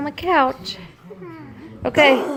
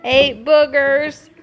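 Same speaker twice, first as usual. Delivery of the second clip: slow, laughing through the words; can barely get it out for laughing; 5 semitones higher, slower than usual. Real, not acted. Mom cracking up.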